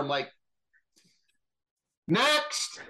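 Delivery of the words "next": high, curt mock dismissal; sharp, high "Next!"; dismissive. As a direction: wave him off like a bored judge. Dismissing the man who backed out.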